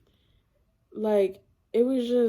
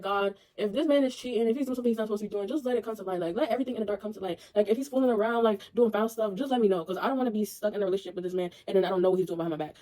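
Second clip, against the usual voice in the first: quiet prayer; 5 dB quieter, much faster than usual. Retold or imitated. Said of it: "I've been praying".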